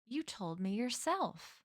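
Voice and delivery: soft, educated middle-aged American; slow, soft educated American voice; soft American accent. Acted. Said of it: "a middle-aged American accent now, soft and educated".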